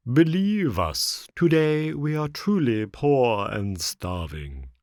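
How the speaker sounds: slow, drawn-out beggar's plea; wheedling, tearful lament; pitiful pleading. A narrator's reading. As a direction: start high and loud, then drag it pitifully. Fox keeps begging tearfully.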